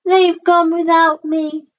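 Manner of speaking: high, sustained wail; crying out. A narrator's reading. Drip, left behind by his family, crying out. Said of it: "And he cried".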